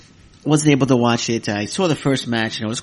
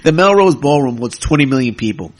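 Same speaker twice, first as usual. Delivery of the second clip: laughing sarcasm; 2 semitones higher, 7 dB louder than usual. Retold or imitated. Podcaster mocking the venue size question, laughing sarcasm. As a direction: laugh it off as absurd. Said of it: "I got sarcastic".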